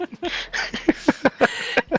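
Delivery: villain laugh broken by a hiccup; evil chuckle with a hiccup. Acted. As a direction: cackle that catches on a hiccup. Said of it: "I hiccuped as I did it".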